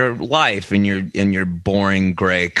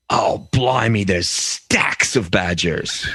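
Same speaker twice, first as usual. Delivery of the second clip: cockney bloke; slower than usual. Retold or imitated. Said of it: "He's like".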